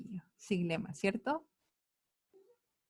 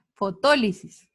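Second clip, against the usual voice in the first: Fotólisis, punched on the TÓ; stress on second O; 3 semitones lower, 4 dB louder, slower than usual. Shown as a demonstration. Teacher showing pupils where the accent goes, Fotólisis stressed on TÓ. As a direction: land firmly on TÓ in Fotólisis. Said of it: "lleva acento en la segunda O".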